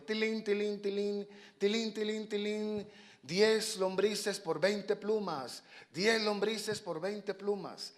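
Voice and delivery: high, sing-song bell and sales call; street vendor's cry. Acted. Fox hawking worms for feathers, sing-song. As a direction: chime the tilín, then stretch out the offer.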